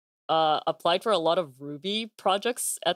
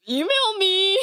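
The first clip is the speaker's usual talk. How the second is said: high squeaky voice; 12 semitones higher, 4 dB louder than usual. Acted. Playful high sign-off.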